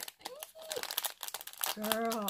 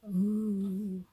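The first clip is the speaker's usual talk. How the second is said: delighted gasp; 6 semitones higher, 3 dB louder, slower than usual. Real, not acted. Gasps at new gift.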